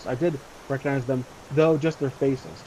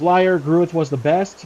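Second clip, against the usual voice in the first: loud, slow accusing yell; hammed-up bandit outburst; 3 semitones higher, 6 dB louder, slower than usual. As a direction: yell it out in protest, drawn out. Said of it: "He yells".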